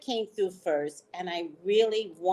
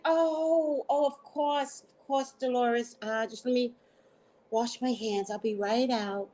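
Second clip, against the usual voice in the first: flustered excuse; 3 semitones higher than usual. Retold or imitated.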